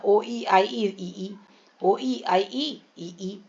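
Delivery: very slow ओईआईई ईई, stretched and rising; slow sing-song. Shown as a demonstration. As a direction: chant the vowels like a rhyme. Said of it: "अपने मन से हम शब्द भी बना सकते हैं". (बहुत धीमा गाता हुआ ओईआईई)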